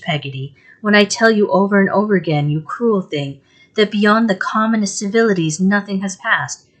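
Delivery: pleading and hurt, voice lifted in distress; tearful, aggrieved mother. Acted. Mother scolds Peggotty through tears, tearful. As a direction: wound up, tearfully scolding her maid. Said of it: "shedding more tears than before".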